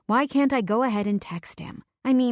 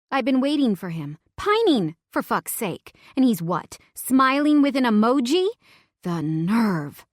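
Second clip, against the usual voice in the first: angry rant; 4 semitones higher, 5 dB louder than usual. Acted. Drunk and angry at him.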